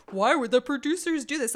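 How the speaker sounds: loud, high exasperated question to the air; mock outraged cry. Host voicing her own outrage at the producers, loud and exasperated. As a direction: throw the question up in disbelief. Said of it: "Like, I'm outraged".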